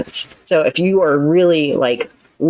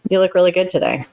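plain, honest praise; mean it simply; sincere compliment; faster than usual. Shown as a demonstration. A counselor shows her listener a sincere tone, genuine. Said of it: "That sounds totally different".

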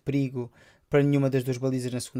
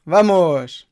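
explosive goal commentary; 4 semitones higher, 10 dB louder, much slower than usual. Real, not acted. Celebrating the goal.

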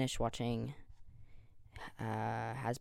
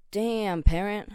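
much higher and louder, hammed-up whistle-style call; mock catcall; 7 semitones higher, 10 dB louder, slower than usual. Joking about gender neutral slang, loud mock catcall. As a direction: holler it like a cheeky catcall. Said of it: "you're not gonna be like".

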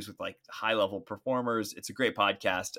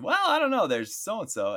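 high teasing quote; 11 semitones higher than usual. Retold or imitated. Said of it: "And I said".

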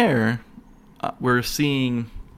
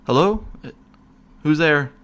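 raised, higher call into the dark; 4 semitones higher, 4 dB louder than usual. Retold or imitated. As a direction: call out into the empty cell. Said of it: "I'm calling out to him".

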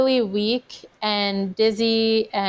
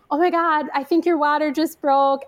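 higher-pitched mock excitement; excited husband; 5 semitones higher, faster than usual. Husband spots her water breaking, imitated excitement. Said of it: "he got so excited".

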